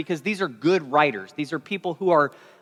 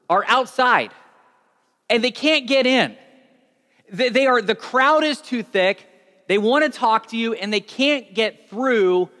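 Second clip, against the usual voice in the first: higher, pressing voice with news; urgent messenger; 3 semitones higher, 4 dB louder than usual. Acted. A crowd member telling Jesus his family waits, urgent.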